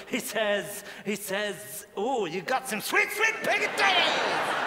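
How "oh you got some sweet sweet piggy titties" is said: clairvoyant. Acted. Clairvoyant relaying a message from the dead, rising cry. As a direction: let the clairvoyant's message soar at the end. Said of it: "the clairvoyance there going".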